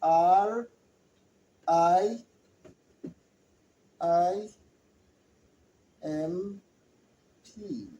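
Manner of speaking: very slow letter-by-letter spelling; slow, fading spelling drill. Shown as a demonstration. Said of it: "that's how you spell it".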